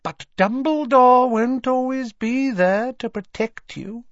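high-pitched, silky menace; smiling, haughty woman's voice, pitched high; unpleasant smile. A narrator's reading. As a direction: threaten through an unpleasant smile. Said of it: "Narcissa Malfoy smiled unpleasantly".

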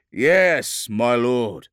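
high, emphatic acknowledgement; loud military reply. Acted. Captain replying to his lord, loud military reply. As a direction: answer a superior over battle noise.

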